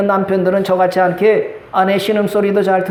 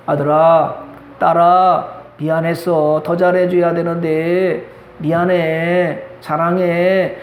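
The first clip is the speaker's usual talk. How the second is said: tender parent; 3 semitones lower, slower than usual. Pretend. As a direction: speak gently, stretching "미안해". Parent apologizing to children.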